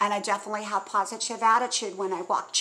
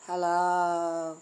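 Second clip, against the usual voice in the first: low, dull droning hello; a hint of a bored friend answering; flat droning hello; 5 semitones lower than usual. Imitating the friend's dull phone greeting. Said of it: "You sound very drony".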